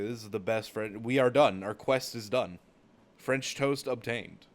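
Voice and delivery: emphatic mock-triumphant proclamation; exasperated insistence. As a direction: declare it finished, punching each phrase. Exasperated declaration that quest is over.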